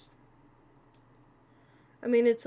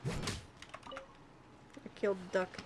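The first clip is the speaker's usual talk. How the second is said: whisper; 3 semitones lower, 11 dB quieter, much slower than usual. Pretend. Creepy confession to the game.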